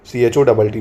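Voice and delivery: slow letter-by-letter spelling; dictating the spelling slowly to students. Shown as a demonstration. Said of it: "नौका चोट बड़ा करके दिखा दे रहा हूँ".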